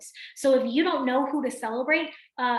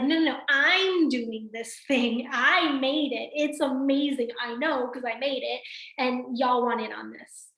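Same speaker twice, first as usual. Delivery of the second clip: slow, proud and owning it; proud excitement. Retold or imitated. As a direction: sell it like you built it yourself. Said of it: "it's a different energy".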